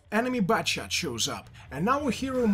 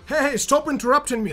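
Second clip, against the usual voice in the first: indignant; 5 semitones higher, 5 dB louder, faster than usual. Acted. Acted indignant player.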